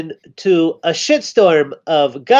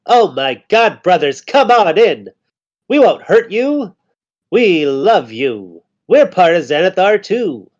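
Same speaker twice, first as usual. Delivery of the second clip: lightly voiced goblin host; goblin leader voice. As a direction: welcome them in like a gleeful goblin chief. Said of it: "And is like".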